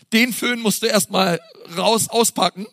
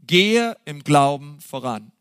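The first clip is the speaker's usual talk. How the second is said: "Gehe" stressed and slow, pitch dropping low; emphatic repeat; 7 semitones lower, slower than usual. Shown as a demonstration. Preacher repeats his point to the congregation, slow and emphatic. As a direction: repeat "Gehe im Glauben voran" slowly, leaning hard on "Gehe". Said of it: "das ist so entscheidend".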